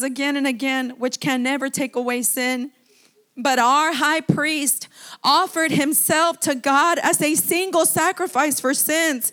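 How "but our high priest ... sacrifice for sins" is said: building proclamation. Acted. Builds to climax.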